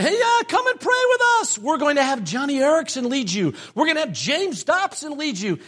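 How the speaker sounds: high, bright salesy pitch; mock the hip celebrity invite; hyped promoter. Lightly voiced church promoter selling a celebrity prayer concert. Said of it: "they were saying".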